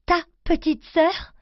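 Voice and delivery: slow, high questioning echo; disbelieving echo. Acted. Girl echoing her mother's words in disbelief. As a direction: repeat it, not believing your ears. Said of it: "Maman a bien dit".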